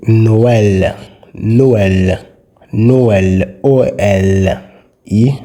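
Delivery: "Noël" with the E sounded clearly apart from the O; very pronounced vowels. Shown as a demonstration. Teacher showing the E differs from the O, pronounced vowels. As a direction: stretch "Noël", then split it slowly as O-EL. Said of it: "very pronounced".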